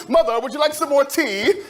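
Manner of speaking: hammed-up polite manservant; polite butler. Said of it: "I was such a gentleman".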